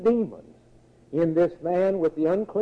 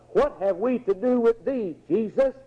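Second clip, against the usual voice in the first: high, pressing cry of the possessed; 7 semitones higher than usual. Acted. Two possessed men meet Jesus Christ, crying out high. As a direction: pitch it high, as demons challenging. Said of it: "they cried out".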